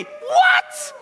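very high-pitched, outraged "What?"; incredulous shout. Acted. Preacher appalled at church-goers who doubt, incredulous shout. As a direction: cry it out in disbelief.

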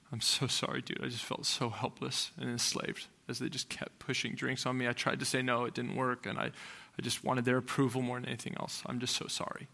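soft, subdued retold confession; fighting back tears. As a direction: quietly voice a remorseful friend. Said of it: "he's fighting back tears".

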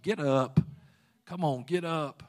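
firm command. Retold or imitated. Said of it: "the same thing the Lord said".

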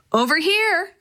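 high-pitched calling out; storyteller's call, pitch up, volume held; mild shout. A narrator's reading. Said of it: "Maria shouted".

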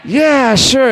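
a light high mock of Bob accepting a beer; imitating Bob. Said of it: "So he goes".

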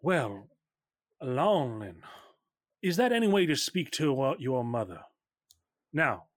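a measured, halting maternal scolding; lightly voiced stern mother. Mother scolds daughter for disrespect, lightly voiced stern mother. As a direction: lightly play a mother demanding respect, pausing often.

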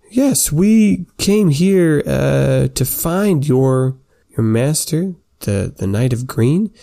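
a hint of a stately centaur; lightly voiced centaur.

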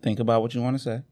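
whispered reassurance; soft whisper. Real, not acted. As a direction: hush her gently. Calming nervous child.

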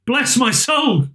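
high, drawn-out astonishment; astonished cry. A narrator's reading. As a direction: cry out in amazed recognition. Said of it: "cried Fred".

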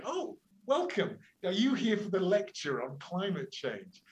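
sugary welcome, pitched high; mock sweet welcome. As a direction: play the innocent host to the police. Scientists greeting arriving riot police.

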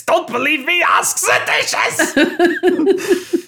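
bad French accent. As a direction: ham it up as a French showman until it runs away with you. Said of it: "The bad French accent really got away from me".

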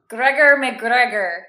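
slow, loud attempt at a Scottish accent. Shown as a demonstration. Host announcing the subject in an admittedly weak Scottish accent. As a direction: put on a shaky-attempt Scottish accent, drawn out. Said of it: "try to say this in a Scottish accent".

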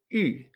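Ü, rounded lips saying I; French-style Ü; U con diéresis. Shown as a demonstration. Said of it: "esa U se pronuncia". (Ü como U francesa)

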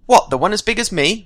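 put-on high, bright young boy's voice; eager boy. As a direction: pitch up into a lively boy. Boy character in read story.

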